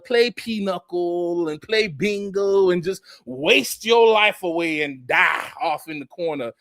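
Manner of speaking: ordinary talk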